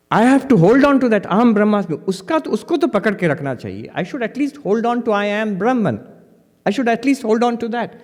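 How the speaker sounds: put-on excited young monk. Young monk eagerly tells the old sadhu, imitated excitement. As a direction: play the keen monk clinging to his insight. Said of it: "a young monk very excitedly was".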